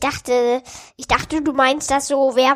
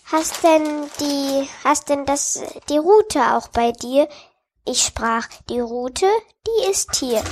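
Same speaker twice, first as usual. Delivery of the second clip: sing-song school recitation, steady and careful; poem recital. Acted. Child recites the Knecht Ruprecht poem for the recording, sing-song recital. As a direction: say it like a child at the school Christmas show.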